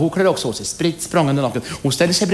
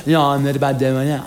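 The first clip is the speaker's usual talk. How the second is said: teasing challenge. Acted. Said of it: "Fast lite utmanande sådär".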